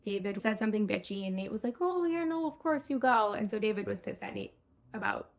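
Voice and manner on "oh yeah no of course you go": higher-pitched, lightly imitated easygoing reassurance; agreeable cool guy. Nate lets Rico go to the ultrasound, imitated easygoing agreement. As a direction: play the accommodating nice guy, lightly. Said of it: "Nate being the cool guy".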